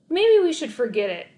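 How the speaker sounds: nervous neighbor wanting out; lightly voiced anxious owner; nervous stammer. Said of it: "stammered Mister Hardaway".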